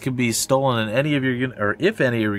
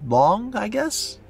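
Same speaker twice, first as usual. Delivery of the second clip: arena announcer; 6 semitones higher than usual. Acted. Announcer reading arena introduction.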